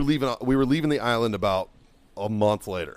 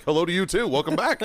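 sarcastic welcome; 6 semitones higher than usual. Retold or imitated. First sergeant greeting a buddy who burst in, sarcastic welcome. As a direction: greet the intruder with breezy sarcasm.

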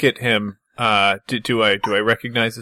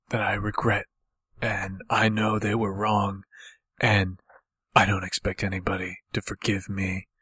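quiet, halting confession; subdued regret; 5 dB quieter than usual. Acted. Character confesses regrets to friends, quiet and remorseful. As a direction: confess softly, pausing between phrases.

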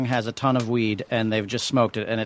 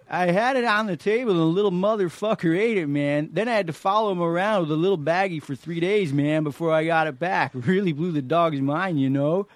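Man Stoner; 2 semitones higher than usual. Acted. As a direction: tell it like a stoned hippie. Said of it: "I'm gonna be Man Stoner".

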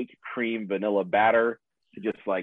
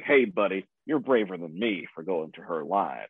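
lightly imitated Southern man, lower pitch; light Southern accent; 3 semitones lower than usual. Man in the parking lot to a shopper, light Southern accent. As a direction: give the stranger a hint of Southern accent. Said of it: "I gave him a Southern accent".

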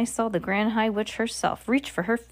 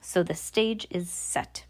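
whisper; 8 dB quieter, slower than usual. Acted. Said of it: "shouted the Grand High Witch".

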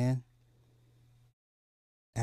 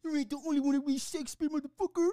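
villain's taunt; 9 semitones higher, much faster than usual. Retold or imitated. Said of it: "they made him stab Easy".

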